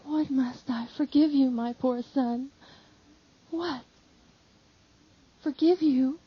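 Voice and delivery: mother answering her sobbing disciple, heartrending. Acted. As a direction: let her heart break on each question. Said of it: "says in a heartrending voice".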